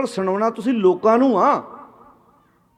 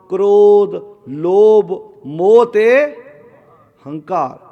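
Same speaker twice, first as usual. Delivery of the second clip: loud, drawn-out list items for all to repeat; prompting a congregation to join in; leading a group response; 5 dB louder, much slower than usual. Real, not acted. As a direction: call out each word and stretch it for the crowd.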